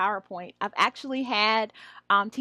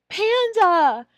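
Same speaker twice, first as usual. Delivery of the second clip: teacher model; 9 semitones higher, 10 dB louder than usual. Shown as a demonstration. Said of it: "Circling the P".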